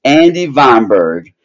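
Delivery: high, loud and slow boasting introduction; gloating wrestling manager. Acted. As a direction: announce yourself like a ring heel. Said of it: "let me do the proper introduction".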